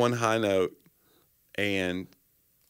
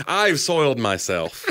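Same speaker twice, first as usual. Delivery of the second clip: mock announcement; 2 semitones higher, slower than usual.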